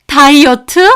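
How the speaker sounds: "다이어트?" thrown back high and loud with a rising sneer; mock the excuse; scornful echo. Grandmother throwing the diet excuse back, scornful.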